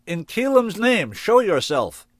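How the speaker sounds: high, loud and slow demand; shouted command. A narrator's reading. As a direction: order the hidden one out, loud.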